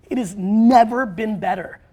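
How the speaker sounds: earnest weight on "never"; very serious emphasis. Real, not acted. Telling the audience very seriously, stress on "never". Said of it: "gonna say this very seriously".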